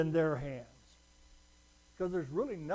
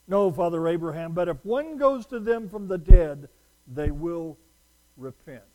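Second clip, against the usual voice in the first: rich man pleading; 12 dB louder than usual. Acted. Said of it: "they go like this".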